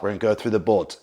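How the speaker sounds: rallying the men. Retold or imitated. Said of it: "And so he would say".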